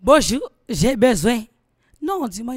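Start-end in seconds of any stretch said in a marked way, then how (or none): 0.0-1.4 loud, slow mock plea; hammed-up request for help; mock begging. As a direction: drag out a needy hello. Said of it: "mocks a begging message".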